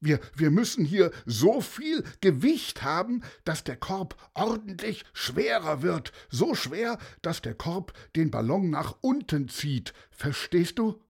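the pilot explains to the bird, mildly anxious; lightly voiced desperate pilot. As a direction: explain the plan slightly urgently.

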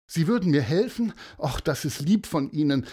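high, quick grateful surprise; touched surprise. Acted. Mother offered help by strangers, gratefully surprised. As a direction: take up the offer with lifted pitch.

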